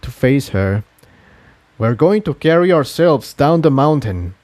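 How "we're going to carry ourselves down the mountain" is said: quiet determination. Acted. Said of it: "a faint gleam deep in his eyes".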